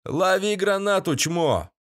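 shout. A narrator's reading. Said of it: "с криком".

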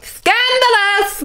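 high, slow drawn-out gasp word; mock scandalised. Reacting to the quiz question, mock shock. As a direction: draw it out, scandalised.

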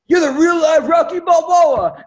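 high, loud, drawn-out proclamation; triumphant retold declaration. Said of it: "And Stallone goes".

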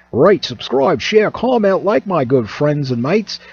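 put-on, thick Australian sign-off; poor Australian accent. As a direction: lay on a hammy Australian accent. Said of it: "thick Australian accent".

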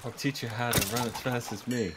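lightly voiced A-Train taunt; a hint of a smug speedster; A-Train impression. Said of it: "You know the bit with A-Train and the kid".

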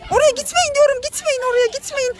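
calling out. Pretend. Calling out to children.

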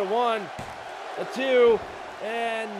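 loud, high pin count; shouted count. Acted. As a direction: yell out the count, rising.

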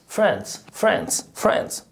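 فرانس repeated as France, English-style; repeating the word for learners; pronunciation drill. Shown as a demonstration. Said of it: "اسمها فرانس".

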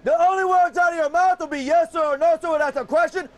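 shouted drill commands; military officer. Real, not acted. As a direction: bark orders like a drill sergeant. Drill instructor orders recruits.

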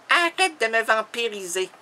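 woman's protest, first take; lightly voiced woman protesting; Charlotte. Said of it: "elle me dit". (protestation de femme, légèrement jouée)

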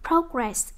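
"progress" with the weight on PRO; stress on first syllable. Shown as a demonstration. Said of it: "các em nhấn âm một nè".

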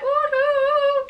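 high-pitched wailing "ooh" like an alarm; siren imitation. Warning friend off with red sirens, wailing siren imitation. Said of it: "red sirens being like".

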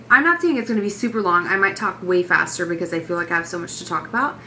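talking between quick breaths; a little winded, rushing through. Real, not acted. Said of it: "I might seem like I'm out of breath the whole time".

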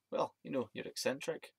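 slightly lifted Scottish imitation; imitating a Scottish man; Scottish accent. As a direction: put on a light Scottish accent. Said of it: "that was a pretty good Scottish accent".

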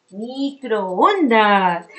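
Microondas said very slowly, syllable by syllable; slow it right down; drawn out. Shown as a demonstration. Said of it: "con qué sílaba está pronunciando la mi".

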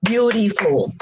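"Beautiful" in three separate beats, BEAU-TI-FUL; syllable by syllable. Shown as a demonstration. Teacher counts three syllables for learners, syllable by syllable. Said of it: "three syllables".

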